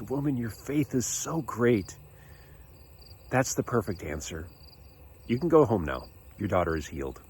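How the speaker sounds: soft, unhurried, kindly pronouncement; voicing a calm, tender blessing; gentle reassurance. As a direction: quietly grant what was asked. Jesus reassures the pleading mother.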